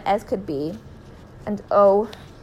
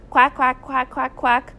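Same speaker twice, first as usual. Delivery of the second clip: higher run of quacks; duck quack; 4 semitones higher, 4 dB louder, slower than usual. A narrator's reading. Friend replying on the phone only in rapid-fire duck quacks. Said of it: "said a voice at the other end".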